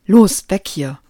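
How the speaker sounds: loud urgent call to flee; urgent shout. Acted. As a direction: shout to get out now. Lucy urges flight after shot. (lauter, drängender Ruf)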